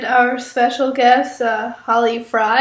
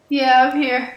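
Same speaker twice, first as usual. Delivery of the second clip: stuffy, weak sick voice. Real, not acted. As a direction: speak with a blocked nose. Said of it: "So weak, so quiet".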